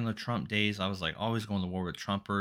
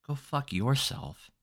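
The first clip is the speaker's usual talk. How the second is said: mocking retort; 7 semitones higher, much slower than usual. Acts out retort to online critic.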